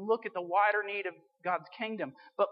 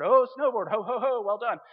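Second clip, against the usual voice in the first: louder, lightly voiced jolly Santa; ho-ho it cheerfully; 4 semitones higher, 8 dB louder than usual. Santa praising the snowboard wish, mild jolly cheer. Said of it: "Santa Claus would go".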